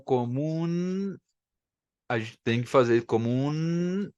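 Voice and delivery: comum closing on a firm n; Spanish pronunciation. Shown as a demonstration. Teacher demonstrating Spanish comum. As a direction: end comum with the tongue up behind the teeth. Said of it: "em espanhol".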